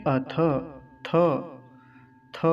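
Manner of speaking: "अथ" ending in a short a, never e; careful model "अथ" with short open ending; correct pronunciation. Shown as a demonstration. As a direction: sound the final थ as a short tha. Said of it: "थे नहीं बोलेंगे".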